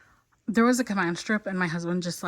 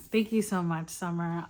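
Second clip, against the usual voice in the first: sincere thanks; 3 semitones lower, 3 dB quieter than usual. Real, not acted. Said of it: "I'm gonna thank her again".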